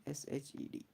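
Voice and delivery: letter-by-letter spelling for students; spelling aloud to class. Shown as a demonstration. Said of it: "क्या याद रखना है यहाँ पे?".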